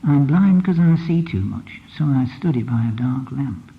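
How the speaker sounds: slow, weighted reading of the line; slowed line, stress on blind. Shown as a demonstration. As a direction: say it slowly, leaning on blind. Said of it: "it's not the same as".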